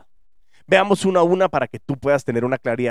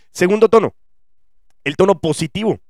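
positive upbeat tone; 4 semitones higher, 4 dB louder than usual. Shown as a demonstration. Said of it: "cuando hablamos con energía y alegría".

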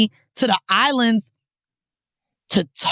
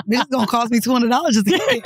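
fast, laughing through the words; laughing disbelief; faster than usual. Retold or imitated. Griping about a spa gift in Edgewater, laughing. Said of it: "And I'm like".

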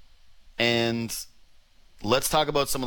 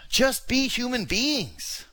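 exasperated plea; 10 semitones higher, slower than usual. Real, not acted. Ranting plea at the players.

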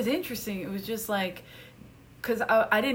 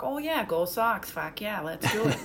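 put-on Boston sports-fan accent. Shown as a demonstration. Helping a friend prep an audition, demonstrating a Boston accent. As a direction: cheer on the Sox in a Boston accent. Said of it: "different things from Boston".

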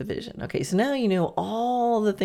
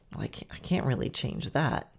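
lower, softer grumbling critic; inner critic; 5 semitones lower, 5 dB quieter than usual. Retold or imitated. Brain gremlin talking you out of change, low and soft. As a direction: mutter it down low like a naysayer. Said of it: "hear your brain go".

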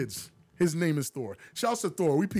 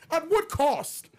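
mock dramatic; 7 semitones higher than usual. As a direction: drag it out like a tragic hero. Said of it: "dramatic line".

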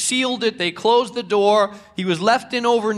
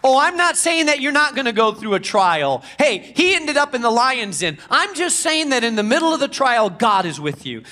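rising, emphatic preacher's appeal; fervent preaching; 3 semitones higher than usual. Acted. Pastor urging listeners to trust God at work, fervent preaching. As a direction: preach it with building conviction.

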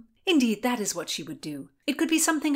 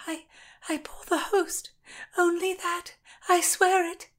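put-on higher, breathless frightened girl; panting terrified plea; 10 semitones higher than usual. A narrator's reading. Constance, panting with fear, swears to Lord William she only bore the host. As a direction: swear desperately through fear. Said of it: "she heard herself pant".

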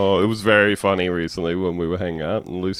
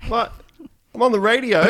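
higher, sunstruck party caller who can't believe it; elated radio caller; 12 semitones higher than usual. Acted. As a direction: play a wasted, blissed-out phone-in caller. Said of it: "he's having the time of his life".

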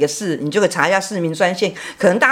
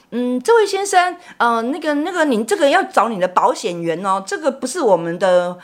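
模仿客气的接线员; 5 semitones higher than usual. Retold or imitated. 学1999接线员答话.

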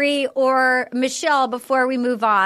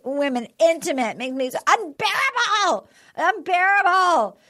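cranky mock complaint; 4 semitones higher than usual. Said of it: "in a cranky bad mood".

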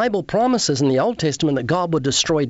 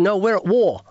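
mildly heated, raised-pitch retort; retold violent words; 5 semitones higher than usual. Woman insisting to the interviewer they are at war, mildly combative. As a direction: imitate her combative insistence, lightly. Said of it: "she was violent with the words".

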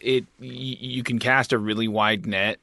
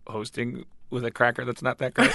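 laughing; 2 semitones higher than usual. Real, not acted. Teasing the host about eating.

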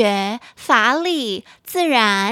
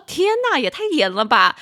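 retold shock; 4 semitones higher than usual. Shocked at strict store clerk.

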